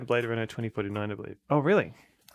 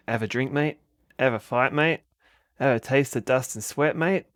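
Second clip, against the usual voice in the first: movie trailer voice; 3 semitones higher, 5 dB louder than usual. Acted. Reading movie poster tagline dramatically.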